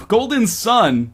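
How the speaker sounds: golden sun slowly and carefully, each word clear; careful slow correction; golden sun, said clearly. Shown as a demonstration. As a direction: fix the slip: golden sun, not scum. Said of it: "not golden scum".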